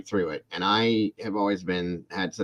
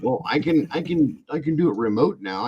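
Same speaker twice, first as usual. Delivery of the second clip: son pleading; 8 semitones higher than usual. Retold or imitated. Son bargaining to stay home.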